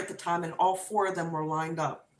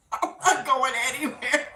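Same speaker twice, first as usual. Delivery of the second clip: tearful refusal; 4 semitones higher than usual. Retold or imitated. Refusing in tears, after wailing noise.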